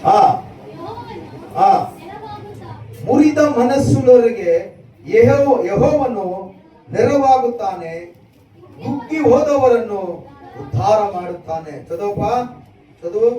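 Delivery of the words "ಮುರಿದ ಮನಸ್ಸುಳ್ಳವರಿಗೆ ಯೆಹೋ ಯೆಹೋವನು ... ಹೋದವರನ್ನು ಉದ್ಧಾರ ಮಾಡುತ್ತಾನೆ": ringing scripture proclamation; emphatic verse reading. Real, not acted. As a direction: read out higher and louder. Preacher reads verse aloud.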